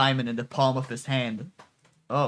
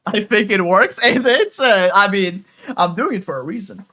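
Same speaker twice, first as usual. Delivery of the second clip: louder, higher, laughing self-justification; laughing defence; 5 semitones higher, 7 dB louder than usual. Real, not acted. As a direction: defend the choice through giggles.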